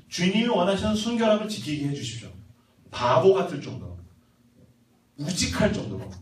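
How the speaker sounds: fervent prayer that swells and settles; earnest prayer. Acted. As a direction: vow solemnly to God. Models prayer of commitment.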